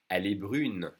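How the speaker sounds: brune with a French U and a held N; pronounced N. Shown as a demonstration. Teacher modelling the form for a girl, pronounced N. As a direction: sound the N at the end of brune. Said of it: "we do pronounce the N".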